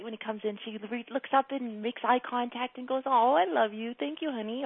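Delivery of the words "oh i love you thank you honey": loving thanks. Retold or imitated. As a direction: coo a grateful little thanks. Imagines mom's loving thanks.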